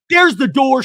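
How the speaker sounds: high, loud mock taunt; hammed-up there's the door; imitating Alexis. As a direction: fling it out like a catty dismissal. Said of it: "Alexis Bellino telling Shannon".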